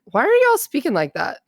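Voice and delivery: mock-appalled kindergarten teacher; baffled teacher. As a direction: imitate a teacher taken aback. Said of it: "just looked at 'em and was like".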